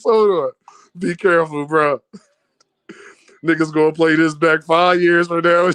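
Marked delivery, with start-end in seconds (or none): 1.0-2.0 lightly voiced impression of KO; a hint of KO warning; KO's voice. Reading KO's message in his voice, lightly imitated. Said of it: "I can just hear K O voice".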